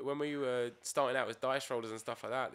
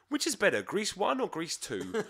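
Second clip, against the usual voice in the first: mock serious question; 8 semitones higher, 4 dB louder than usual. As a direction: ask it like a deadly serious debate. Quotes his message to them.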